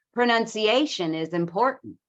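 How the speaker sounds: "Pronunciation is important" with content words stressed; English stress timing. Shown as a demonstration. Teacher contrasting English with Spanish rhythm, stress-timed "Pronunciation is important". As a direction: swallow the small word in "Pronunciation is important". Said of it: "we would say".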